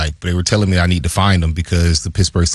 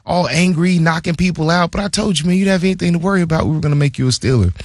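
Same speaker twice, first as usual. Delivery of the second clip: much higher, playful I-told-you-so voice, fast toward the end; hammed-up, gloating GM; mock high-pitched Colbert ribbing a player; teasing GM; 10 semitones higher than usual. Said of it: "he was like".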